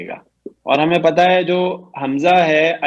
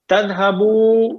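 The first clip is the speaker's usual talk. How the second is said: slow model word; 4 semitones higher, much slower than usual. Shown as a demonstration. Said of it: "teacher models the feminine form".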